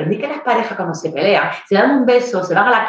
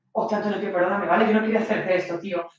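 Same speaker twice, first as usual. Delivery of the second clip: pleading softly; 7 dB quieter, faster than usual. Acted. Pleading apology to abusive boyfriend.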